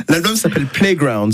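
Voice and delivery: the album title said the English way, slowly; english accent french. Pretend. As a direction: lean into a slow English reading of the title. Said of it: "Repeat after me". (prononcer le titre de l'album à l'anglaise, lentement)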